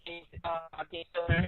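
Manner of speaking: glitchy mic, voice cutting out; metallic voice. Real, not acted. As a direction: still robotic on the call. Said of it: "Is it a little bit robotic still?".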